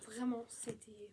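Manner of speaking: slow breathless whisper; hushed and slow; whispered gush. Real, not acted. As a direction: whisper it as if overwhelmed. Gushing about a beloved book.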